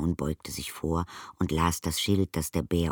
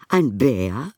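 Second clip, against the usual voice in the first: Mrs Brown surprised; 6 semitones higher, 7 dB louder than usual. A narrator's reading. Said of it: "wiederholte Misses Brown".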